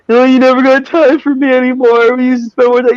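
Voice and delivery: high, loud mock nag; nagging wife voice. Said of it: "all women say".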